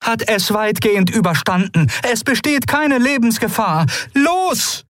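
high voiced creature urging haste; Keru urging. A narrator's reading. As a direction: push them to go, rising to the last word. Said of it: "begann Keru".

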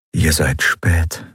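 slow remembered echo of Kai's words; echoed memory. Acted. Woman hears Kai's voice echo slowly in memory. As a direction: let it hang slowly like a memory. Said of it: "hörte das Echo von Kais Stimme".

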